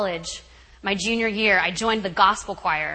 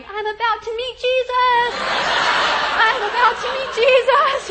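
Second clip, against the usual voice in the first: mock panic; 14 semitones higher, 7 dB louder than usual. Terrified student among roaring prisoners.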